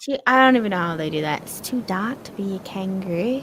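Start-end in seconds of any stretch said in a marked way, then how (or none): 1.4-3.4 put-on Australian accent. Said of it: "tried to do an Australian accent".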